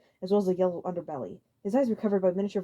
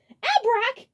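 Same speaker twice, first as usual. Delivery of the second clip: high, loud shout of the name; sharp angry shout; 8 dB louder than usual. A narrator's reading. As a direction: yell his name across the room. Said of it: "he shouted".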